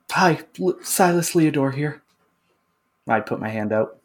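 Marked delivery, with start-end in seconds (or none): 0.1-2.0 higher, brighter, cheery self-introduction. Acted. Scene: Silas introduces himself to Shirax, cheery. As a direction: announce yourself with a grin.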